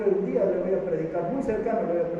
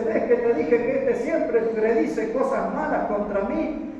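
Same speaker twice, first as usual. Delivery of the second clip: told you so; 4 semitones higher, 5 dB louder, slower than usual. Acted. King complains to Josafat.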